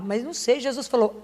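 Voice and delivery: normal talking voice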